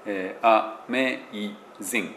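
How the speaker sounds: あ、めい、ぜん in three chunks ending on consonants; English syllables. Shown as a demonstration. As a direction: split amazing as あ めい ぜん. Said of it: "ていう感じ". (英語の音節で区切って)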